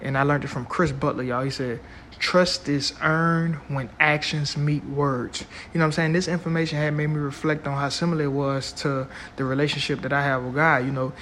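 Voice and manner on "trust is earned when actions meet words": slow, emphatic repeat; slow and deliberate. Shown as a demonstration. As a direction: lay each word down slowly. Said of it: "I'm gonna say that again".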